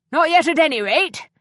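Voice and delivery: cheerfully. A narrator's reading. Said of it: "Stoner said cheerfully".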